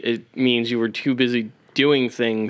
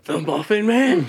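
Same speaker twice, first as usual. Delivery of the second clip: high squeaky cookie voice; Gingy voice; 9 semitones higher, slower than usual. Retold or imitated. Friend joins the Muffin Man bit, squeaky high. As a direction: chirp it back like the gingerbread man. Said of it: "Did that sound like Gingy".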